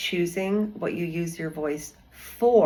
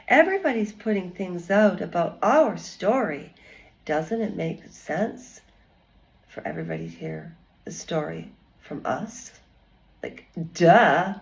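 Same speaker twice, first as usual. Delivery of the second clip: mocking Meghan Markle. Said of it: "That's the way she was looking at people, like, duh".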